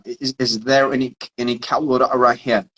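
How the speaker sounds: lightly imitated Australian "cold water" without the r; Aussie "cal' wodah", mimicked; Australian accent. Player asks interpreter for water, imitated Australian accent. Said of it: "this is the Australian accent".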